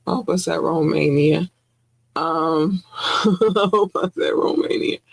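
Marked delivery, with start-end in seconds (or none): 2.9-5.0 laughing. Real, not acted. Laughs at herself.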